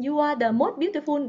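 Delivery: MOST said as "mốt", no s; learner mispronunciation. Retold or imitated. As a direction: recite with most as Vietnamese "mốt". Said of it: "bây giờ chúng ta sẽ bỏ đi". (đọc most sai thành "mốt")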